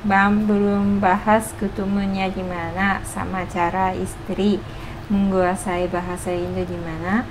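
ordinary talk

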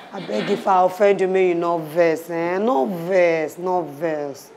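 low, soft plea to a lover; pleading. Acted. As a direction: beg forgiveness gently. Pleading with lover not to vex.

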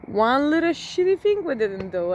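half-laughing at the tiny fix; exasperated relief. Retold or imitated. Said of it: "and I was like".

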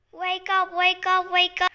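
play-acted urgent calling out; pretend wake-up call. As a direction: shout to rouse a sleeping sister. Playing waking a sleeping sister.

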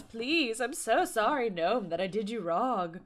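playfully begging forgiveness; pleading apology. Pretend. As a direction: apologize to an offended gnome. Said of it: "Plead for forgiveness".

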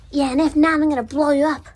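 loud, high robber threat; hammed-up villain yelling; threatening shout. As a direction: bark a threat at the shop owner. Robber threatening the shop owner.

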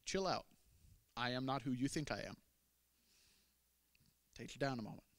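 soft, settling "chill out"; calming paraphrase. Retold or imitated. Jesus calming the fiery woman, softly. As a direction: ease her down gently. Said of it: "Jesus' reply is basically saying".

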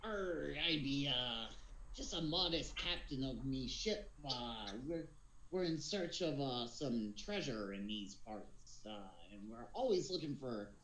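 lightly voiced pirate captain; a touch of pirate, with drawn-out pauses. Captain introducing himself to strangers, lightly voiced pirate. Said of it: "being able to do a pirate voice".

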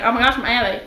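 playful put-on southern twang; southern accent. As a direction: rattle along in a southern accent. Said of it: "talk in a southern accent now".

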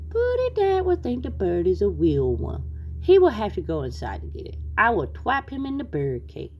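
little cartoon bird plotting a trap; Tweety's babyish bird voice. Tweety plotting to trap the cat, babyish cartoon voice.

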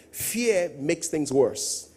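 fear makes things worse, stretched out slowly; slow emphatic point. Real, not acted. Pastor hammering his first point, slow. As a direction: drag it out to drive the point home.

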